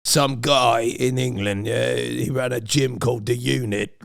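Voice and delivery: put-on slow British gym-owner accent; heavy, slow put-on British voice; mock British accent. Explaining where the voice came from, mock British accent. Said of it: "where I got that voice from".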